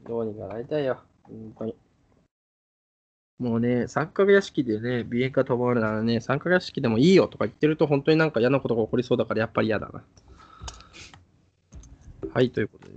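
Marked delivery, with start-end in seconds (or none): 0.1-10.0 sniffling with a blocked nose. Real, not acted. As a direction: talk through a stuffy nose. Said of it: "鼻をすすりながらね、やってますけどね".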